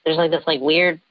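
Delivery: electronically disguised voice; voice changer. Real, not acted. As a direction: speak through a voice changer. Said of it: "even with the voice changer".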